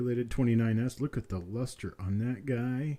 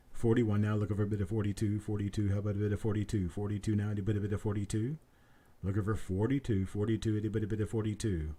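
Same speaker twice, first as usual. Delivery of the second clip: quick steady auctioneer patter; auction bid calling; 3 dB quieter, faster than usual. Acted. Auctioneer calls for the next bid in brisk patter. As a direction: keep the bids rolling like an auctioneer.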